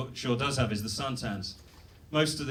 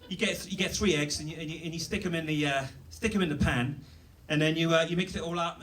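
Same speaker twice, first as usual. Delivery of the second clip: lightly voiced TV chef; 2 semitones higher than usual. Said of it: "I'll just do a quick recap".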